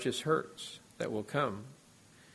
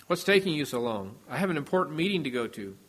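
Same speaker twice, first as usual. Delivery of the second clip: mildly impatient, the last line rushed; a touch of a hurried pastor's snap; rather sharp. Retold or imitated. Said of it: "he said rather sharply".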